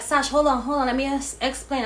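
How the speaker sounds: high loud urgent pleading; friend pleading. Retold or imitated. Friend begging Sash to hold on, high and urgent. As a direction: chase her with a frantic plea.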